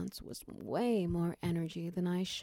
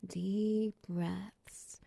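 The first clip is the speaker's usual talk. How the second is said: whispered, slow breathing cue; soothing whispered breathing guide; breathy whisper; 2 semitones higher, much slower than usual. Acted. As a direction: whisper them through each breath. Guiding partner's breathing.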